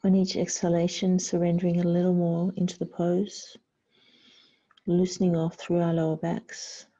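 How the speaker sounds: calm yoga instruction with long pauses; guided meditation. Real, not acted. Yoga teacher guiding the class into child's pose, guided meditation. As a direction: guide them to surrender, phrase by unhurried phrase.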